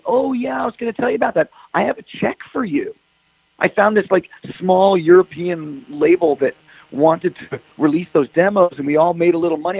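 mocking bass player. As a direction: play the clueless guy breezily. Mimicking the casual bass player.

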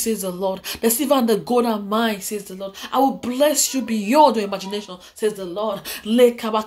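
rhythmic prophetic declaration mixed with tongues; prophetic preaching. Acted. Preacher prophesying to viewers, fervent preaching voice. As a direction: proclaim the word of the Lord over the people.

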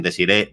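Desiree with the accent on the E; stress on final E. Shown as a demonstration. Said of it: "con acento en la E".

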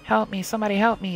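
loud, high cry for help; screamed plea. Acted. Child screams for rescue from her captor, loud cry. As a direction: call out in desperate alarm. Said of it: "I screamed".

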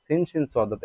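সিন, শিন, সদ, দদ with short, unheld vowels; no stretching on সিন, শিন, সদ or দদ; old short reading. Shown as a demonstration. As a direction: recite সিন, শিন, সদ, দদ as a brisk list. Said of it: "এভাবে পড়তাম।".

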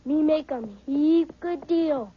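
lightly voiced stereotyped movie Indian, broken English; a mock Hollywood-western Indian, only slightly put on; Hollywood Indian talk. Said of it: "Indians don't talk like that".

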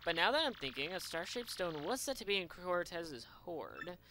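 put-on lightly accented theatrical merchant; vain trader. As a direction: savor every dramatic word like a vain showman. Continues Flavio voice.

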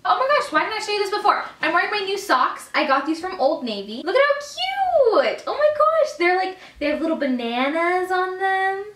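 high, fast, loud gushing; excited. Real, not acted. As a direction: squeal over cute socks. Showing off cute new socks.

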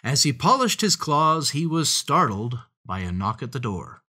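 lively storybook opening; animated story narration. A narrator's reading. Opening a tale of a hungry fox, animated narration. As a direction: set the scene for young listeners. Animated reading of picture book.

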